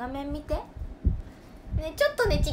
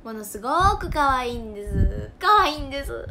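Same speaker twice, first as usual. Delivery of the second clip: gushing; 6 dB louder than usual. Real, not acted. Gushing over her dogs.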